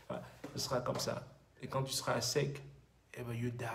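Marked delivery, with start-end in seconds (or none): 3.1-3.7 whispered punchline. Acted. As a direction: drop to a whisper.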